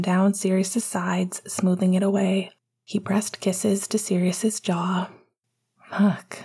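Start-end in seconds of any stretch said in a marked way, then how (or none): 5.9-6.4 murmuring. Acted. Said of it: "Sirius murmured".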